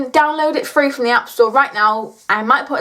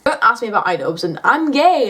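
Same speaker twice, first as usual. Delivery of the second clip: ordinary talk, nothing marked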